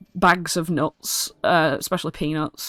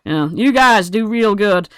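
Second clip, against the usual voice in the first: goblin muttering. Acted. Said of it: "he just starts muttering to himself".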